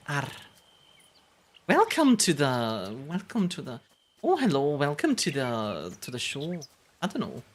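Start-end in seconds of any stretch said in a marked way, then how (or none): 1.7-6.6 tentative Scottish accent, slightly Irish; attempted Scottish accent. Shown as a demonstration. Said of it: "I do a Scottish accent".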